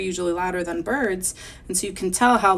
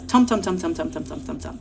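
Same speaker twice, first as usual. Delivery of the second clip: machine sound. Acted. Teacher voices another laundromat machine, rhythmic fading chant. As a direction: drum out the machine's noise, fading. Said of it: "Some of them make different sounds".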